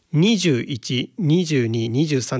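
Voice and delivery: slow, deliberate 二十一 with its full "jū"; full standard counting. Shown as a demonstration. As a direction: sound out the "jū" in every number, 二十一 as "nii-jū-ichi". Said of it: "この十っていう口に、".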